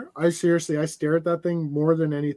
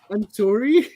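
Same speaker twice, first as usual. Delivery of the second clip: put-on high, rising little-child apology; cute little girl; 6 semitones higher, 4 dB louder, slower than usual. Telling friends about Maura's daughter dropping a toy, imitated little girl. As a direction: imitate an adorable child, pitched up at the end. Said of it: "She's just, uh, absolutely adorable".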